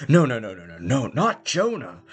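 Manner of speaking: mock grief. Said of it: "somebody else is like".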